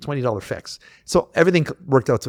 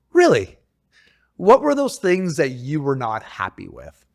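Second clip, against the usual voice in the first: retold incredulous challenge; 2 semitones higher, slower than usual. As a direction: challenge a flimsy excuse, incredulous. Retelling his challenge to evasive caller.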